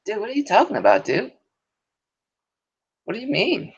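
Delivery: exaggerated surfer-dude whine, very high; white dude impression. Shown as a demonstration. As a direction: play a stereotypical white dude, squeaky and incredulous. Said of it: "That's my best white dude impression".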